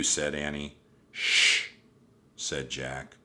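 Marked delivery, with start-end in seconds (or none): 1.1-1.7 loud, sharp shush; hushing. A narrator's reading. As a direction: shush her urgently. Jack hushes Annie.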